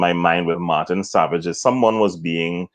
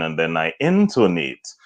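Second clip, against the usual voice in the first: "intonate" leaned on within a level line; emphasis on "intonate" only; stress on "intonate". Shown as a demonstration. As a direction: pick out "intonate", keep the rest even. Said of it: "you can intonate, but not modulate".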